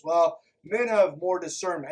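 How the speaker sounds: a smug, loud know-it-all voice; mocking a smug man. Vlogger mimics the sexist argument, loud and smug. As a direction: sneer the claim back at them. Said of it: "mocking the claim".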